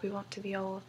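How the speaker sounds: a lightly put-on, bad British accent for the posh Victorians; mock the Victorian fans with a half-hearted British accent. Mocking Victorian-obsessed characters in a bad British accent. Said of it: "I do a bad British accent".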